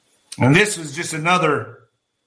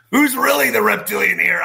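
laughing jab; 4 semitones higher than usual. Real, not acted. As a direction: toss it back with a laugh. Laughing jab at Jim Carrey.

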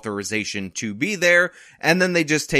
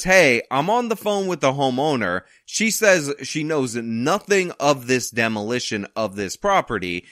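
put-on Southern accent. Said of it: "why did I give them a Southern accent".

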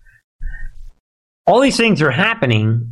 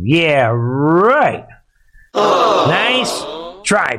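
higher sarcastic shout of Nice try; Nice stretched high and falling, try dropped; sarcastic retort; 3 semitones higher, much slower than usual. Real, not acted. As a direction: throw Nice try back with mock scorn. Mocking shout back at Clapper.

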